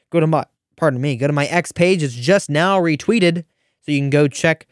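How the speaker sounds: talking through hiccups; hiccuping. Real, not acted. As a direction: hiccups breaking the words. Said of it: "I'm hiccuping all over the place".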